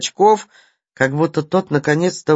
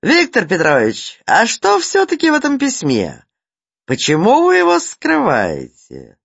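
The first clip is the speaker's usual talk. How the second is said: loud, higher, demanding question; needlessly loud challenge; 7 semitones higher than usual. A narrator's reading. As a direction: throw down the challenge too loudly. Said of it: "с ненужной громкостью бросил вызов".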